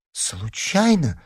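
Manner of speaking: high, drawn-out scared excuse; frightened exclamation. A narrator's reading. Larisa owns up to losing the amulet, frightened. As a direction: squeak it out slowly in fright. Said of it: "испуганно воскликнула Лариса".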